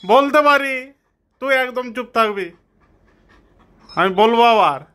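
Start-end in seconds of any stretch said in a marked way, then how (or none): 0.1-0.9 "বলতে পারি" said full and firm, stress on "বলতে"; firm version. Shown as a demonstration. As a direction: push it out boldly. Repeats phrase two ways. (জোর দিয়ে "বলতে পারি")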